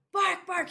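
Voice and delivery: high, playful mock bark; a teacher's light mock dog bark; imitating a dog bark. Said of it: "He's barking at me very loud".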